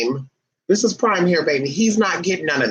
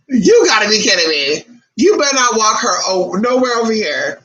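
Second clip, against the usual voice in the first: scolding; 2 semitones higher, 4 dB louder than usual. Acted. Scolding owner.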